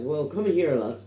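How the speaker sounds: put-on Irish accent, toned down; second try at a plain generic Irish. Retelling the kind steward's words, generic Irish accent. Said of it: "do a generic Irish accent".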